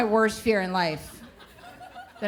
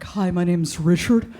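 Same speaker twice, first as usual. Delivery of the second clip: mock therapist whisper; 2 semitones lower than usual. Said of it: "a therapist whisper".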